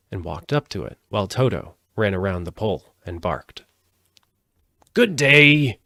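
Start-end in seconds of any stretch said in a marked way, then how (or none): 4.9-5.8 high, loud husky greeting; a rather husky straw man says hello; husky scarecrow. A narrator's reading. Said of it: "in a rather husky voice".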